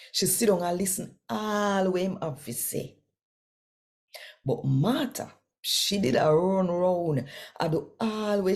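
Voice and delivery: animated Bible story narration; scripture reading. Acted. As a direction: tell the Bible story to the listeners. Reads scripture story aloud.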